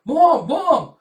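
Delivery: high, loud calls for mom; child screaming. Pretend.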